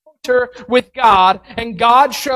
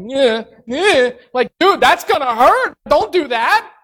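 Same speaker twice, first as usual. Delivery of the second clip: mock nervous dodging; 4 semitones higher than usual. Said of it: "he's going like this, he's dodging".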